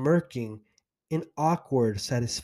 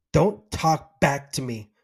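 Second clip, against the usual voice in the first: harsh tone; 4 dB louder than usual. Retold or imitated. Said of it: "she said with her harsh tone".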